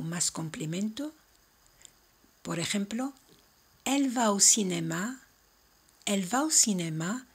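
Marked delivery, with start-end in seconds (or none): 3.8-7.3 elle va au cinéma with the voice rising at the end; rising question tune. Shown as a demonstration. Teacher showing a rising question tune. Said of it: "una entonación montante".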